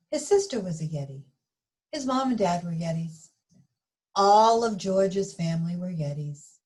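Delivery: put-on lively read-aloud for children; story narration. A narrator's reading. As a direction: read it like storytime for little kids. Reading picture book to children.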